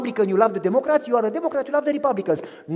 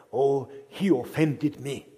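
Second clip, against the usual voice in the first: mock offended whine; 6 semitones lower, 5 dB quieter, slower than usual. Mocking the offended person.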